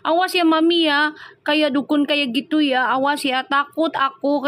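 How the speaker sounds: half-hearted fearful whine to mom; mock scared plea. Host imitating Hani's scared chat to Mami, mock frightened.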